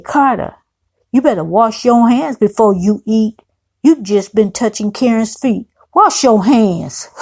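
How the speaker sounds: emphatic playful telling-off; mock scolding. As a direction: scold him like a bossy friend, slowing at the end. Her own imagined scolding of Carter.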